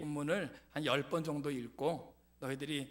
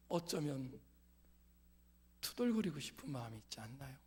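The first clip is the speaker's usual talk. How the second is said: usual speaking voice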